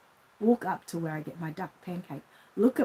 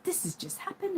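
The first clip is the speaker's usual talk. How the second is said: breathless secret whisper; hushed whisper of big news; 12 semitones higher, 8 dB quieter than usual. Retold or imitated. Tells husband the news.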